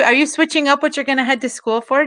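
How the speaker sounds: ordinary talk, nothing marked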